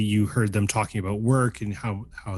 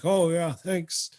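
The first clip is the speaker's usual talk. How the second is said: Quincy's voice; 7 semitones higher, slower than usual. Acted. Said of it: "He's like".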